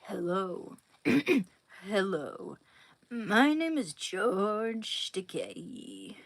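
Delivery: slow whispered imitation; George Takei impression. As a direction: drawl the name slowly, half whispered. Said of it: "I'm gonna do an impersonation of George Takei".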